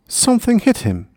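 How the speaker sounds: ordinary delivery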